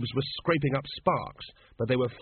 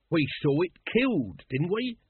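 rising, a touch anxious; urgently; 5 semitones higher than usual. Acted. Nobby asks the others about the dragon, lightly urgent. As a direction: press for reassurance, worried. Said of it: "said Nobby urgently".

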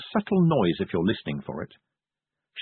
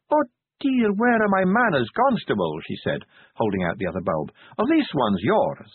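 mock politeness; 5 semitones higher than usual. Sally's mock-polite offer.

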